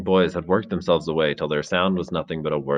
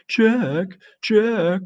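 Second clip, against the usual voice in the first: high mocking echo of a name; bitter mimicry; 14 semitones higher, 4 dB louder than usual. Jack mocking Ralph's call, high bitter mimicry. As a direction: parrot him with a bitter sneer. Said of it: "in bitter mimicry".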